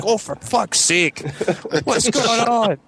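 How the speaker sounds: very high-pitched, exasperated father, no real volume; mock screaming dad. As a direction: climb into a panicked screech as the overwhelmed dad. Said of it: "He starts screaming".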